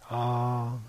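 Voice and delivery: low, soft drawn-out "ah"; wistful "ah" on a falling breath; soft sigh. A narrator's reading. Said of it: "sighed Harvey".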